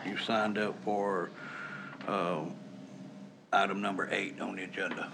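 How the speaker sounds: whispered aside. Real, not acted. Chairman whispers to the confused speaker which item he signed up for.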